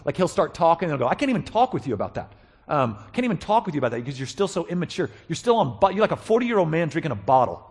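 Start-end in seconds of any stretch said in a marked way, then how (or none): 1.1-7.6 mildly exasperated, raised pitch; perturbed Paul. Acted. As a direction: voice a teacher losing patience with immature pupils. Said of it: "Paul tends to get really perturbed".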